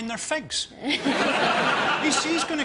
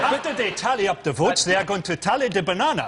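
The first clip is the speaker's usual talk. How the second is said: mock calypso-style Caribbean lilt; lightly hammed-up West Indian accent. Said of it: "went a bit West Indian".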